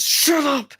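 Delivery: comic high-pitched yell; mock yell. Mimics a thing yelling shut up.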